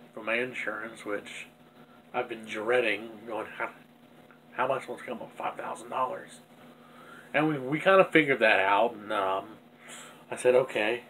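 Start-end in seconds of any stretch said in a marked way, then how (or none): none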